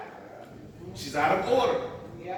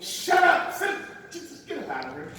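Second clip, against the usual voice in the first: hushed scolding. Acted. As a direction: silence her rudely. Disciples silencing the woman.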